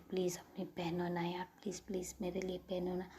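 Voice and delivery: hushed, fast, wheedling please-please; cute pleading. Acted. Samaira pleads cutely with Avni to wear the dress. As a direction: beg sweetly like a spoiled child. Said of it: "उतनी cute तरीके से समायरा कहती".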